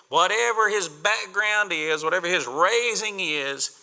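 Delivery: ordinary delivery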